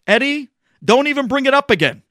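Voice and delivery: high, loud, indignant outburst; upset shout. Retold or imitated. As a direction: rage at the pressure he's been under. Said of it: "he gets so upset".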